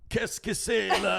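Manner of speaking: high, mocking Québécois French voice; mock Quebec French. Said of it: "and they're like".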